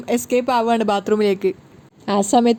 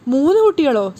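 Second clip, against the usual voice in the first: amazed; 2 semitones higher, 5 dB louder than usual. Acted. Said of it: "സച്ചി അമ്പരന്ന് ചോദിക്കുകയാണ്".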